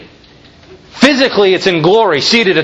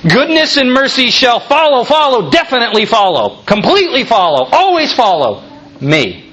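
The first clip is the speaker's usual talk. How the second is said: preacher insisting on each "follow"; emphatic repetition; 4 semitones higher than usual. Shown as a demonstration. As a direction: FOLLOW stressed each time, building insistence. Driving home the emphatic verb.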